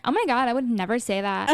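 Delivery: bubbly Valley girl impression. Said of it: "talking like a Valley girl".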